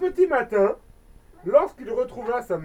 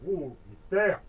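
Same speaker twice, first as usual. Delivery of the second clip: mock mystery aside; 5 semitones lower than usual.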